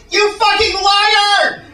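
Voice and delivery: high, drawn-out hysterical shriek of outrage; stereotypical gay guy. Acted. Spurned lover confronting the groom outside church, hammed-up high camp shriek. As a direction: play a camp jilted lover wailing. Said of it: "Stereotypical gay guy".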